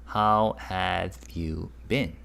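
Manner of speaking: How have you been? spoken slowly; slow clear demo. Shown as a demonstration. Teacher slowly translating for students. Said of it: "And it means what?".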